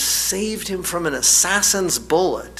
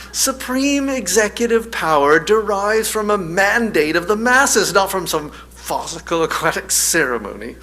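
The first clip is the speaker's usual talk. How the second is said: high and louder, an indignant lecture; ranting political peasant; 7 semitones higher, 4 dB louder than usual. Retold or imitated. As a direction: rail against the king, high and loud. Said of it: "And of course, Dennis".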